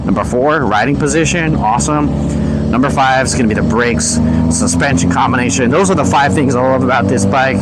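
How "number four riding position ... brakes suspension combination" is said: helmet mic with wind noise; muffled, recorded inside a helmet. Real, not acted. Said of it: "too much wind noise in my helmet".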